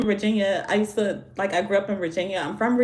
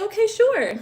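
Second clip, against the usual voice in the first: lightly voiced cashier, pitched up high; cashier's reply; 11 semitones higher, 4 dB louder than usual. Cashier agreeing to a donut order, lightly imitated. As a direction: chirp it higher and lilting, imitating the clerk.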